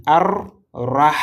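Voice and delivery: "Ar-Rah" with held rolled r and strong breathed h; insisted letters. Shown as a demonstration. Teacher pointing out the important letters, insisted letters. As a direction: lean on the r and final h of "Ar-Rah". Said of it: "il faut insister sur cette lettre-là".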